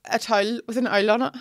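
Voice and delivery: towel and owl said with oi, tɔɪl and aɪl; a towel with an owl, Belfast oi sounds. Shown as a demonstration. Teaching her friend the local vowel, towel like tɔɪl.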